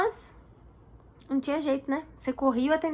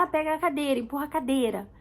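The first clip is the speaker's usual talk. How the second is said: rushed everyday order; 3 semitones higher than usual. Retold or imitated. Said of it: "é o que a gente fala na correria".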